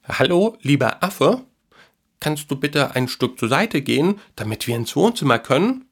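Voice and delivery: high, sweet and polite; friendly boy's voice. A narrator's reading. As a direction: ask nicely, coaxing the monkey aside. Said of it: "mit freundlicher Stimme".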